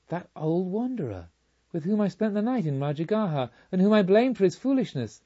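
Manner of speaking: a pained outcry of regret; anguished self-reproach. Acted. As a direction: berate yourself in bitter realization. Carmelita's self-reproach at revelation.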